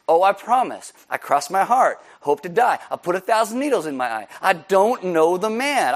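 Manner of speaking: put-on insistent, childlike cross-my-heart oath; swearing an oath. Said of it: "the next comes the oaths".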